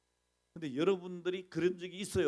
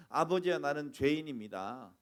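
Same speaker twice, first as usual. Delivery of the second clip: repentant plea; 5 dB louder than usual. Retold or imitated. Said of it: "그러잖아요".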